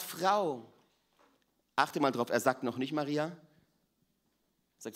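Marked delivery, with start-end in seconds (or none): 0.0-0.7 a touch of tender Jesus calling her; Jesus gently addressing Mary; loving. Acted. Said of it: "mit ganzer Liebe und Barmherzigkeit sagt".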